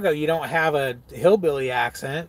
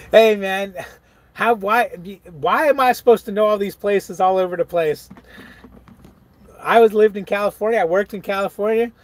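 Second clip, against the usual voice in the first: raised, louder, protesting voice; mock indignant protest; 5 semitones higher, 5 dB louder than usual. Real, not acted. Streamer defending himself to viewers laughing at him, indignant. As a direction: defend yourself indignantly, pitched high.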